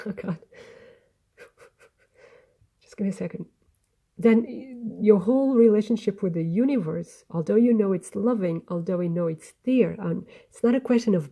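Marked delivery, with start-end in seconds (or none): 0.0-7.2 getting emotional. Real, not acted. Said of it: "sorry, I'm getting emotional".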